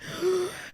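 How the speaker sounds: high surprised gasp; sharp gasp. Retold or imitated. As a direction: gasp in awe. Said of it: "And I was like".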